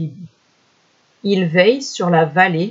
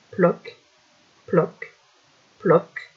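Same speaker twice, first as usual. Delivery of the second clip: soft, isolated plops; imitated raindrops; 4 dB quieter, much slower than usual. A narrator's reading. First rain falling on the square, soft spaced plops. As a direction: drop each sound softly, with a pause after.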